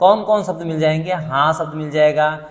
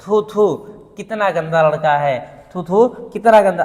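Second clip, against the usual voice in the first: higher, louder mock spitting disgust; hammed-up revulsion; 3 semitones higher, 4 dB louder than usual. Shown as a demonstration. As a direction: spit it out in scorn. Disgust interjection demo.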